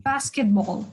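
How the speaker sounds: Basketball with the first syllable stressed. Shown as a demonstration. Teacher showing the stressed syllable, Basketball stressed on the first. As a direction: hit the BAS in Basketball. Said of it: "It is on the first one".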